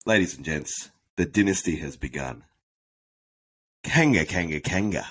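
chanting hype-man intro. Acted. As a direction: chant it like a crowd warm-up. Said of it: "come up with a little bit of an intro".

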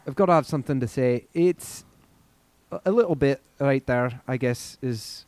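tentative, light Scottish accent; Scottish accent attempt. Shown as a demonstration. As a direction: feel your way into a Scottish accent. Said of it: "Scottish right now".

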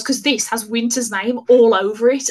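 said with a cheeky grin. Retold or imitated. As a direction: grin through it, pleased with yourself. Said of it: "cheekily grins and goes".

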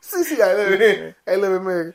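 put-on halting Hispanic accent through laughter; mock Hispanic accent. Cohost echoing older Luffy's answer, mock Hispanic accent. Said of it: "a real hardcore Hispanic accent".

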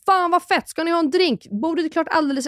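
high-pitched, hyped imitation; acted-out excited patter; exuberant banter. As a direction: play an over-enthusiastic host welcoming guests. Acting out boisterous exchange at bistro.

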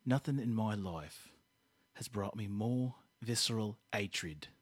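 quiet hammed-up hatred; mock fury. Comic hatred in character.

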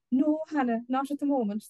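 high-pitched, meek little refusal. Acted. Little man up a tree answering his furious wife, meek. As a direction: shrink from her in a high voice. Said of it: "the little man said meekly".

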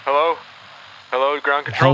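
hailing over a radio link. Acted. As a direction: call in over a crackly radio. Astronaut calls in by radio.

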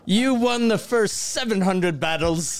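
grand warlord proclamation, laughing; hammed-up war sage; mock Sun Tzu. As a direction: pronounce it like an ancient general. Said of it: "Sun Tzu".

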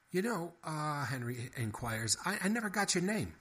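a hint of a fast-talking mouse; Henry the mouse. A narrator's reading.

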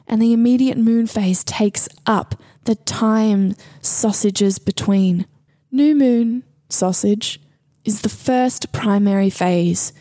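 prophesizing voice. Pretend. Host decodes a sausage-filled moon passage, lightly mystical prophesying voice. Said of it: "magical prophesizing voice".

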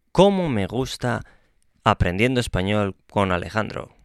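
enthusiastic, lifted start; a teasing sample exclamation; exclaiming. Shown as a demonstration. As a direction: gush about it. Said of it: "Exclamación al principio y al final".

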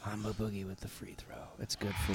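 hushed whispered call; whispering. Pretend. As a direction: breathe it out, whispered. Whispered play-by-play.

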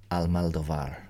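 Almodovar breathed out, al-MAL-do-var; whispered Almodovar. Shown as a demonstration. Trying out a foreign name in a whisper. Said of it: "I'm sure I've mispronounced that".

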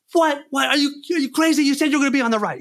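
high, incredulous shouting; hammed-up furious director; mock outraged yell. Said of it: "He's, he's going apeshit".

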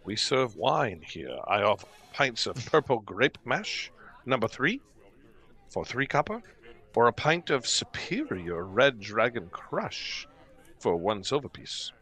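lightly voiced innkeeper, measured pace; innkeeper reciting the wine list. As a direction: offer each drink as a proud host. Game master voices the innkeeper.

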